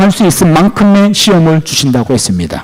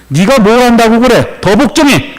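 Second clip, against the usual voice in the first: higher, insistent acted command; stern God; 4 semitones higher than usual. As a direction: order obedience, brooking no argument. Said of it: "무서운 말 아닙니까?".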